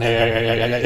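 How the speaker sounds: rapid stuttering gun noise; imitated machine-gun stutter. Machine gun guy going wild, stuttered noise. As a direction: chatter like a gunner firing.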